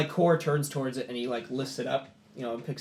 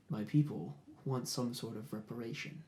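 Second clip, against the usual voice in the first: a hint of a quiet threatening warlord; menacing chieftain; 4 dB quieter than usual. Kor speaks low, menacing negotiation.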